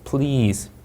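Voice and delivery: PLEASE with a full doubled L; PLEASE with a clear L; L sound. Shown as a demonstration. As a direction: hold the L after P in PLEASE. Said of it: "받침 있는 리을이고".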